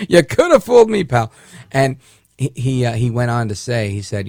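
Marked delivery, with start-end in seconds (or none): 0.1-1.3 sarcastic retort. Retold or imitated. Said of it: "I was like".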